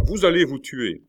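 high, loud warning; alarmed cry. A narrator's reading. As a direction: cry out to stop him. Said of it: "s'écrièrent-ils tous deux à la fois". (mise en garde criée, voix aiguë)

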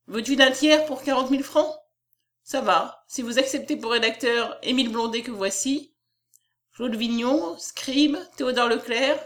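lightly voiced businessman striking a bargain; a hint of a brisk wheeler-dealer; deal-making publisher. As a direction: toss out the offer, then list names.

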